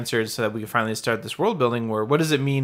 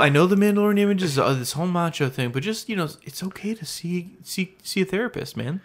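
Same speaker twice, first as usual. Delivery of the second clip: reassuring; 5 semitones higher than usual. Pretend. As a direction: gently urge him to get help. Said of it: "They're trying to tell him".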